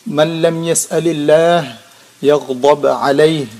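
formal Arabic recitation. Acted.

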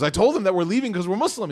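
loud imitation of someone standing their ground; retold defiant outburst. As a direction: raise your voice as if retelling a defiant answer. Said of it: "I, like, yelled at him".

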